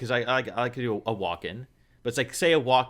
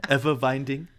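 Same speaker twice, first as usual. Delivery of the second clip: put-on lightly German-accented musing; a hint of solemn German philosopher; Werner Herzog; 4 dB quieter than usual. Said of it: "that wasn't even a good impression".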